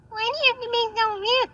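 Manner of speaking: exasperated scolding. Acted. Repeat, higher.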